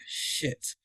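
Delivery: voiceless, awed swear word; retold stunned whisper. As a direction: breathe the curse out in shock. Retold stunned reaction to the ticket.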